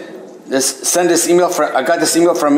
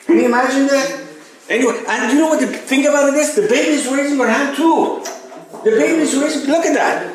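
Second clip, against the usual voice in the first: amazed insistence; 9 semitones higher than usual. Real, not acted. Insists no baby was there.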